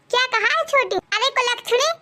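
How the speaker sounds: sharp-tongued mother-in-law yelling for her bahu, lightly played; mildly voiced scolding mother-in-law. Mother-in-law snapping at daughter-in-law.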